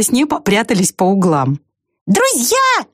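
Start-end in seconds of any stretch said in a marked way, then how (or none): 2.1-2.9 high, tiny mouse voice. A narrator's reading. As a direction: squeak it out like a small mouse. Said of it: "начала мышь". (тонкий мышиный голосок)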